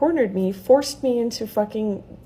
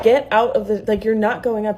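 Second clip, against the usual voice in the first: retold loud order; 4 dB louder than usual. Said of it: "I start getting loud".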